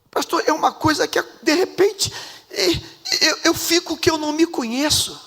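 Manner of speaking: put-on mild tearful strain in the young man's voice; choked-up confession. Young husband confessing his father's violence to the pastor, choked up. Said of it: "embargou a voz".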